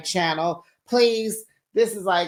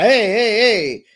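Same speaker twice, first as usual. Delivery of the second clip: higher, louder mock-startled calls; mock startled yelp; 5 semitones higher, 6 dB louder than usual. Boyfriend reacting under the back-seat blanket, mock startled. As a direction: yelp it out in playful protest.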